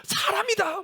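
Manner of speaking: high fan-like squeal of "사람이다"; fan shriek. Retold or imitated. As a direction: squeal it like a fan spotting a star. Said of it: "아이돌 그룹처럼". (팬처럼 높게 외치는 "사람이다")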